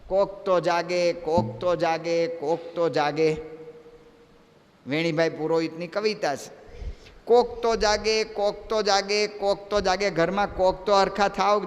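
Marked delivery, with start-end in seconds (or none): 0.1-3.4 slow recited refrain; lightly chanted verse; poem recitation. Acted. 7.2-10.1 slow recited refrain; lightly chanted verse; poem recitation. Acted.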